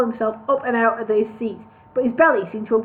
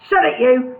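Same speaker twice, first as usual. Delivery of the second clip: snarled; 5 dB louder than usual. Acted. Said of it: "snarled Al".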